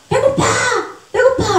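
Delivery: high, loud mock yell of a hungry body. Preacher showing the hungry flesh crying out, loud high yell. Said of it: "라고 소리 지르잖아요".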